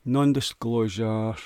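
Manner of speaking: "Non-disclosure" slowly sounded out; careful pronunciation attempt. Real, not acted. Podcaster struggling to say a legal term, slow careful "Non-disclosure". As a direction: draw out "Non-disclosure" syllable by syllable. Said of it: "Can't say it".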